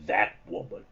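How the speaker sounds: low, slow, bell-like boom; booming dragon voice. A narrator's reading. Falkor refusing Bastian, in a slow booming bell voice. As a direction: let it ring out deep and slow like a great bronze bell. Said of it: "boomed the bronze bell-like voice".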